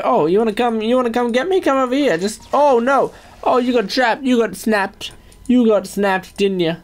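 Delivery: high, playful taunting voice. Acted. Taunting the trapped phantom, high and playful. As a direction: tease the phantom like a pest.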